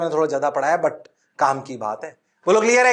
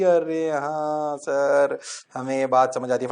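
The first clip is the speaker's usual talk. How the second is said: lower, slow dragged out "अरे हाँ sir"; mock student reply; 6 semitones lower, 4 dB quieter than usual. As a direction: play a drawn-out pupil agreeing. Teacher voices students' reply. (छात्र की नकल, खिंचा हुआ)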